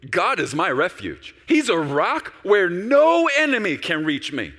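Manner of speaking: loud, slow, high-ringing declaration; bold, preacherly shout of trust; confident proclamation. Acted. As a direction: declare it as David, building to a drawn-out cry. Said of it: "I get more confident".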